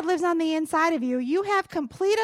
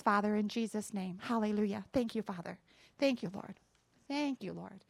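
prayer. Acted. Closing prayer over the congregation.

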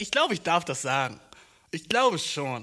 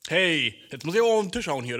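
mock telling-off; 2 semitones higher, 6 dB louder than usual. Acted rebuke of a face-grabber.

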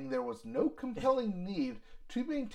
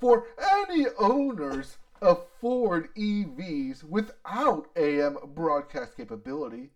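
Ford CEO voice; 2 semitones higher, 5 dB louder than usual. Retold or imitated. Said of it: "Is this your Ford C E O voice?".

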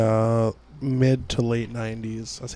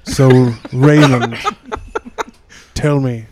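Santa voice; 5 dB louder than usual. Pretend. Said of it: "It's Santa Claus".

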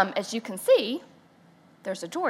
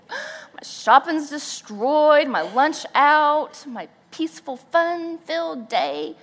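slow drawn-out mock grief; hammed-up slow lament; 5 semitones higher, slower than usual. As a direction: mourn each lost plan. Lamenting ruined day.

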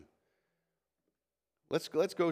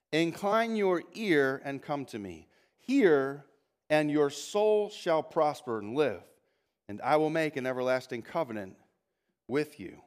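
solemn scripture reading. Acted. Reading key verse three.

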